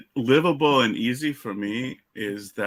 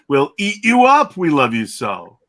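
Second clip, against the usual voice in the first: loud, high monstrous bellow of a line; monster roar; 5 semitones higher, 11 dB louder than usual. Retold or imitated. Author quoting his book's monsters in a big booming roar. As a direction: roar it like a wild beast who adores you.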